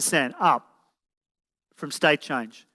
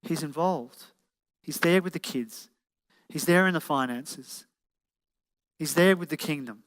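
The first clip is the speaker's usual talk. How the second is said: softly voiced inner relief; sigh, then settle into quiet reassurance; relieved woman letting go; 2 semitones lower, 3 dB quieter than usual. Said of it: "She can go".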